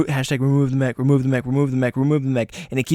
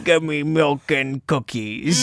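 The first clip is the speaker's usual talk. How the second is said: German cat voice; 2 semitones higher, slower than usual. Pretend. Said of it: "Was he Santa cat?".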